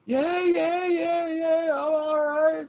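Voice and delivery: high squeaky laughing through the words; retelling, laughing so hard the voice goes high. Real, not acted. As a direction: giggle helplessly while insisting you're fine. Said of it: "I'm fucking just fucking laughing".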